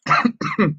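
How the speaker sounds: sudden burp caught in the throat; choking on a burp. Real, not acted. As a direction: gulp and choke on a burp. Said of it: "choking on a burp".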